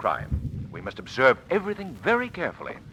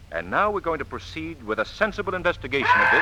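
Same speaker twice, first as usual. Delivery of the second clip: commanding shout; 5 semitones higher than usual. Acted. Hero asserting control, shout heard.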